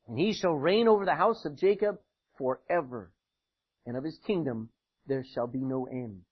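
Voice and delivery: measured, solemn reading of scripture; solemn Bible reading. Acted. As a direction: read it like the King James text. Scripture reading opening sermon.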